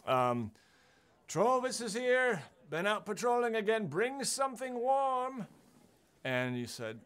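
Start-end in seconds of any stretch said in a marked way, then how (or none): 1.3-5.5 pompous Trovis. Acted. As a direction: boom out your own arrival, stretched and lofty. GM voices Trovis announcing himself.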